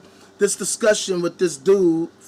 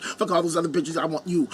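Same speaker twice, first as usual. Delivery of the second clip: mock seductive murmur; 4 semitones lower, 6 dB quieter than usual. Mock fan swooning, seductive.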